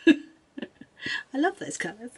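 slow, high, adoring sigh; doting. Acted. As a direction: swoon over the colours. Drawn-out doting repeat with laugh.

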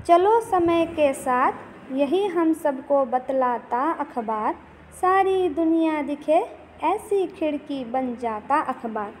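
slow, measured recital of a verse; steady classroom poem reading; poem recitation. Acted. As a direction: recite the lines to the class with rhythm. Teacher recites last stanza.

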